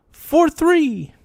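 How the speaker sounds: high excited yelp; excited squeal. Real, not acted. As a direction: yelp it out with glee. High hype call.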